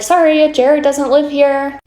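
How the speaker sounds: high, slow, extra-polite sorry; overly polite slow refusal; polite apology. Retold or imitated. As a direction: sweetly brush her off. Politely turning away the stranger.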